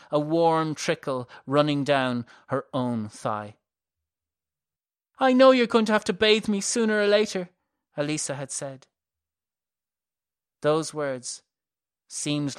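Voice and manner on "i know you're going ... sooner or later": high, fast echo of the plea; recalled echo. A narrator's reading. Malern recalling Elisa's plea, haunted echo. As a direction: replay her sister's words, haunted.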